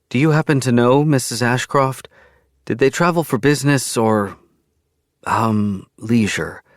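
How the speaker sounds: a hint of a pained officer asking carefully; pained female officer. A narrator's reading. Officer asks the widow, a touch pained. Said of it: "Officer Hannah looks pained when she asks".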